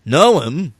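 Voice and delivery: lightly voiced old Jedi impression; a hint of a British film elder; Alec Guinness. Co-host quoting Obi-Wan to his friend, light impression. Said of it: "That's my Alec Guinness".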